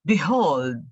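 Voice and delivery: Behold said as a weighty word on its own, with a swooping tune; emphasis on Behold. Shown as a demonstration. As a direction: set Behold apart and give it full emphasis. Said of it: "with emphasis on, on that word".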